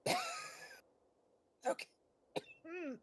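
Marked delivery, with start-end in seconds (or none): 0.1-0.2 coughing through the word; cough over word. Pretend. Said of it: "best fake coughing".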